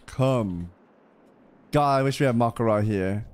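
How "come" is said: slow, dramatic menace; slow villain line. Acted. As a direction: deliver it like a doomed warning. Character menacing an old NPC.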